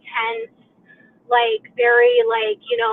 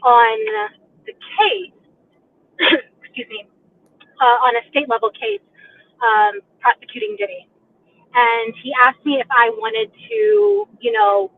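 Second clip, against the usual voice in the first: echoing. Real, not acted. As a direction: voice echoing on a call. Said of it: "sorry, I'm, I'm echoing".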